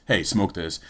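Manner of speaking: casual soft-spoken offer; friendly offer. Retold or imitated. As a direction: hand it over kindly, no menace. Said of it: "maybe not even a mean way".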